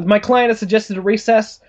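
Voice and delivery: lightly played lawyer making a request; courtroom lawyer. Acting the lawyer addressing the court.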